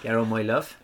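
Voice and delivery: put-on Cornish burr; Cornish pirate accent. Host teases viewers from Cornwall, piratical Cornish accent. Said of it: "You all sound like pirates".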